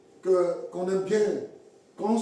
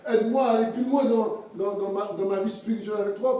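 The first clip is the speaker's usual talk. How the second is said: a mildly raised, pleading cry to the Lord; retold prayer; 3 semitones higher than usual. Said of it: "je crie à Dieu".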